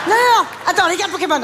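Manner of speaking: high, loud panicked no; frantic protest. Acted. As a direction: cry out to stop the child. Mother fights child over cards.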